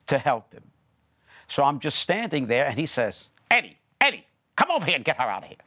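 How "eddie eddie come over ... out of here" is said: imitated urgent call, raised pitch. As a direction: call sharply for help, then rush the order. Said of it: "he calls Eddie to come into the scene".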